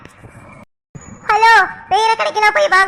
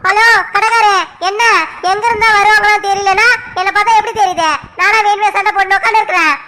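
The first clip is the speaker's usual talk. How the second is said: raised, heated complaint to the shopkeeper; indignant scolding. Acted. Customer scolding the shopkeeper over being insulted, heated. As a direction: push back hard, feeling wronged.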